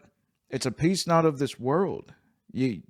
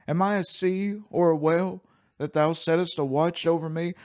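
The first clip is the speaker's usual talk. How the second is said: read as Job's lament; 5 semitones higher than usual. Acted. Pastor voicing Job's complaint to God, raised. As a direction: let "Am I a sea or a whale" lift high in complaint. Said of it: "let us examine this".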